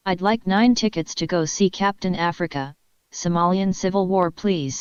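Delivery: would-be sexy voice, comes out creepy; creepy seductive voice. Acted. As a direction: try to sound seductive, land creepy. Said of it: "in a voice he thought was extremely seductive and sexy but ended up making him sound like a cat molester".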